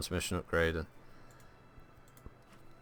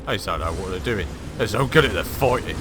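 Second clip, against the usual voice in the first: sneaky villain voice; 4 dB louder than usual. Acted. Gamer plotting an ambush on enemy tanks, sly villain voice.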